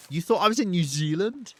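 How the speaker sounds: loud, high-pitched disbelief; incredulous. Real, not acted. Streamer to viewer who guessed the wrong country, incredulous.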